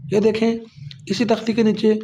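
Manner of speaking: ordinary talk, nothing marked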